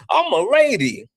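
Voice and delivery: high mock prim voice; mocking her. Streamer mocking a debater's excuse, high and prim. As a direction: squeak it out like a prissy lady. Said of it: "she was like".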